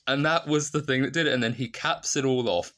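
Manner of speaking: high, loud and fast with glee; excited. Real, not acted. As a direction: rush it out, thrilled. Excited retelling after laugh.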